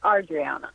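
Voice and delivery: "Adriana" opening on an AR sound. Shown as a demonstration. Caller correcting the host on her name, "Adriana" said AR-dree-AH-na. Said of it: "Um, it's Ar".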